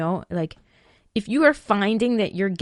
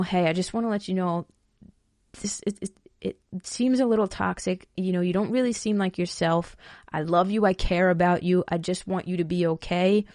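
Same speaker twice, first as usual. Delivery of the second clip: gentle. Shown as a demonstration. To a friend in a toxic relationship, gentle and caring. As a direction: reassure gently, no pressure. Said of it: "very gentle way".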